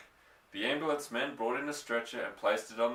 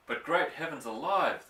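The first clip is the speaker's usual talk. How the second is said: a lightly raised, indignant outburst; mild shout; 5 semitones higher than usual. Acted. Little doctor hearing about the tiger trap, a mild shout. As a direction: call it out in mild outrage, not a full yell. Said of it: "the little doctor shouted".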